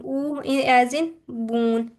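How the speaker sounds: ऊ and बून drawn out very slowly with a long oo. Shown as a demonstration. Teacher demonstrating the long oo vowel, very slow. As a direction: stretch the oo in बून for the class. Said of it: "ऊ sound".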